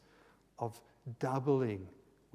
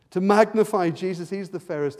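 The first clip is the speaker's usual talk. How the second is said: emphatic; 6 semitones higher, 13 dB louder than usual. Acted. Preacher lifting voice.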